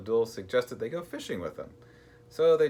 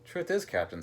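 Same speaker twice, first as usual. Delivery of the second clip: higher, slightly sighed confession; 9 semitones higher than usual. A narrator's reading. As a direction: lightly sigh the words out. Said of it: "sighed Percy".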